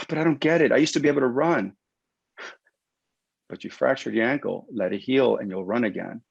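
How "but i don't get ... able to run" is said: protesting patient. Retold or imitated. Injured runner protesting to the clinician, higher mock whine. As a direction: push back like a baffled runner.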